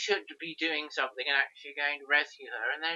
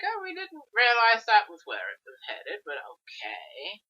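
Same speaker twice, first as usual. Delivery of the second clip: surprised; 6 semitones higher, 3 dB louder than usual. Retold or imitated. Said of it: "we're like".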